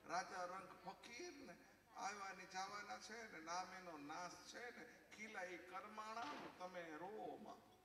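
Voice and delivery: slow mock-philosophical consolation; a hint of pious sing-song, words stretched; turning spiritual. Wife turns spiritual to console husband, slow and mock-solemn. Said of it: "પછી આધ્યાત્મિક થાય".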